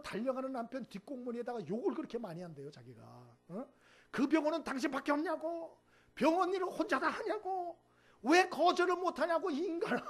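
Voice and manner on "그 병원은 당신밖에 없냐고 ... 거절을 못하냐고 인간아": higher, louder mock scolding of husband; wife scolding husband rushing off to the ER, higher and louder; irritated wife's nagging. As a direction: nag him like a fed-up wife. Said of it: "막 짜증을 내고 그냥 막 그랬대요".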